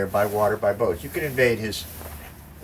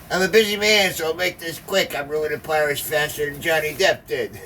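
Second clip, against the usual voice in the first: put-on Al Capone accent; 4 semitones higher than usual. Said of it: "this Al Capone accent".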